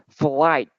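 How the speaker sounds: "flight" slowly, with the final T sounded; pronounced final T. Shown as a demonstration. Teacher re-models a word for the student, final T pronounced. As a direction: draw out "flight" and release the T. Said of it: "Just remember the letter T".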